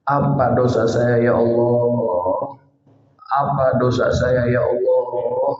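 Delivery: slow, grieving plea to God; tearful prayer. Retold or imitated. Father alone in the prayer room, pleading to God through tears. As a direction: say it slowly as if holding back tears. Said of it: "sambil dia nangis".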